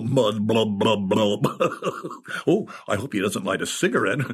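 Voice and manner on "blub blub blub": blub blub blub as slow bubbles rising; bubbling laughter sounds. Retold or imitated. Writer imitating laughter bubbling up, playful blub sounds. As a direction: mimic laughter bubbling up from mud. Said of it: "laughter bubbles up like methane".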